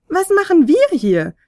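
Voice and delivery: leicht gespielte schwache Fionella-Stimme; zaghaft, eine Spur höher, noch halb im Schlaf. A narrator's reading. Fionella fragt verwirrt. (schwach und verschlafen fragend)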